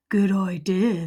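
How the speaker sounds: hushed whispered agreement. Acted. Big skeleton agrees to frighten each other, whispering. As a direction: whisper it spookily.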